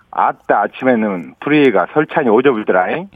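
broad Jeolla dialect, ending drawn up; 전라도 사투리로. Shown as a demonstration. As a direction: say it like a Gwangju native, 불더라잉 rising. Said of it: "전라도 사투리로 한번 알려드릴게요".

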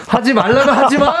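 high-pitched scolding through laughter; hammed-up angry prohibition; mock angry. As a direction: play at losing your temper, half laughing. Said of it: "막 화내".

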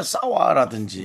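싸와 with a tense doubled ss, slowly. Shown as a demonstration. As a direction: draw out 싸와 with hard ss. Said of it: "뭐 사와인데". (싸와를 된소리로 천천히)

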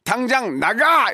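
high mock-angry order; scolding demo. Shown as a demonstration. Host models scolding for caller, high mock anger. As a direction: pitch it up and throw them out. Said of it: "이렇게 다시 한 번요".

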